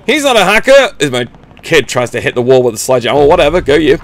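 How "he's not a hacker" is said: mock sarcastic. Mocking repeated line.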